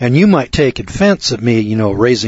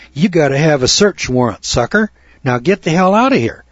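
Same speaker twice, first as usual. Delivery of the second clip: defiant telling-off; 5 semitones higher than usual. Pretend. Sergeant throws out a colonel.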